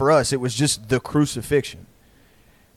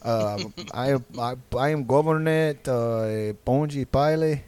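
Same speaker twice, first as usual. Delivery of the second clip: amateur Pilate; 4 dB quieter, slower than usual. Retold or imitated. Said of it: "goes up there and he's like".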